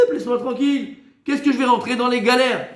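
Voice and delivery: sneering teen mocking the commandments; mock complaining student. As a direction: play the fed-up pupil brushing rules off.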